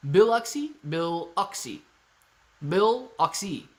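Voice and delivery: Biloxi sounded out with a strong BILL; stress on BILL. Shown as a demonstration. Practising the town name for chat, Biloxi with emphasis on BILL. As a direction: lean on the first syllable, BILL-oxi. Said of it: "Emphasis on the Bill".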